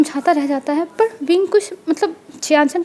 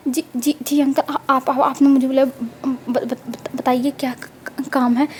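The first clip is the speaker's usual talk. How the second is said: stammering, halting with nerves; scared stammer. Acted. Nephew stammers nervously to his angry uncle. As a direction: stutter out of fear of punishment. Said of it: "तुम ये क्या डरने का नाटक कर रहे हो".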